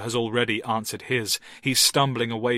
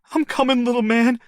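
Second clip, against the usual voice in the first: firm; 14 semitones higher, 8 dB louder than usual. A narrator's reading. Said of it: "saying firmly".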